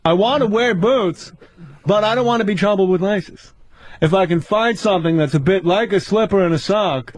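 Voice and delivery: Seinfeld impression. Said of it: "What's the deal with white women?".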